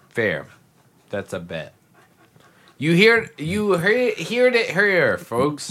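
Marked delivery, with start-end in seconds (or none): 2.8-5.7 loud, high game-show call; announcer voice. Pretend. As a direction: announce it to the crowd. Mock announcement of the bet.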